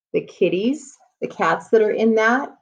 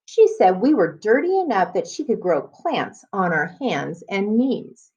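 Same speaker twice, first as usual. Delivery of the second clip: put-on reading to children. Teacher reading a chapter book to students, storybook voice. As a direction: clear storybook read-aloud.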